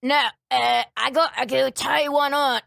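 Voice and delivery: lightly voiced Scottish drinker; Scottish accent. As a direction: imitate a careless Scottish store owner. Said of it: "this is a fucking person who owns a store".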